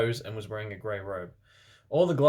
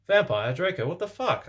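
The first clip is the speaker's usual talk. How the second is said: shocked; 8 semitones higher, 3 dB louder than usual. Acted. Narrator demands of fighting boys.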